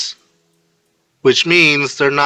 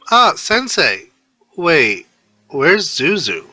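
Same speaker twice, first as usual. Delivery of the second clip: put-on surprised girl voice; 5 semitones higher, slower than usual. Neji voiced on phone.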